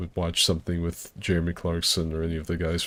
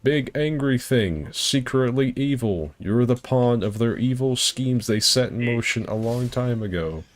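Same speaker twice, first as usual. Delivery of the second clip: mock lore narration; 6 semitones higher than usual. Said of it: "It's like".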